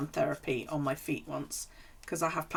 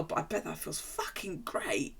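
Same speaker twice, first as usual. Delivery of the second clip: whisper; 6 dB quieter than usual. Retold or imitated. Longing at film foot massage.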